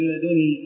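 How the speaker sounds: لدني with a single, undoubled nun; light nun. Shown as a demonstration. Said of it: "خفيفة النون".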